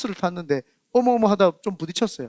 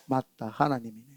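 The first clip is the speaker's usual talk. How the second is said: softer, lower, as if to oneself; the quiet click of understanding; hushed realization; 9 semitones lower, 9 dB quieter than usual. Retold or imitated. Silent man realizes God acts.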